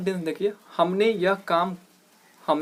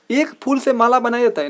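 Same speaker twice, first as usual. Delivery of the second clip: higher, louder mock disbelief; incredulous; 6 semitones higher, 5 dB louder than usual. Real, not acted. Teacher scoffs at the students' mistake, loud and incredulous. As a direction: scoff at the idea, raised and loud. Teacher mocks the wrong phrase.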